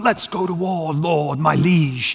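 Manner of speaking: mock British knight; British accent, drawn out at the end. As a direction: put on a British accent for castle talk. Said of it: "speaking in a British accent and going".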